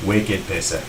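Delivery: low, soft mock Boston accent. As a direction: echo the slang in a Boston accent. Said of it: "gotta be careful with the Boston accent".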